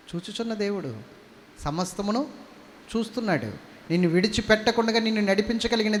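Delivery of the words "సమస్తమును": usual speaking voice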